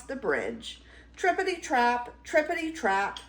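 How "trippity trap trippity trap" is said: high, bouncy rhythmic chant; clattering hoofbeats. A narrator's reading. Middle Gruff clattering over the bridge, high patter.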